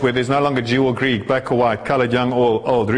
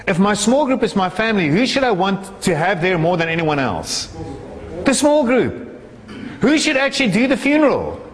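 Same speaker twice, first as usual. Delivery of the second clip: higher-pitched, insistent sermon delivery; impassioned preaching; 6 semitones higher than usual. Acted. Preacher arguing the small group should lead the funeral, insistent. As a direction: press the questions home to the congregation. Preacher presses a rhetorical point.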